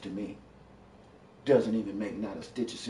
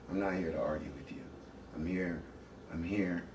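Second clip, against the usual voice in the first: calm; 2 semitones lower, 5 dB quieter than usual. Real, not acted. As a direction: settle her down gently. Argument, trying to calm down.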